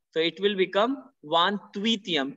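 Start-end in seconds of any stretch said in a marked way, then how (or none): 1.2-2.4 VAN TWEETIUM linked through a sounded t; French liaison. Shown as a demonstration. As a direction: run "van-tveet-yem" together on the t. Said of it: "T will link to this H".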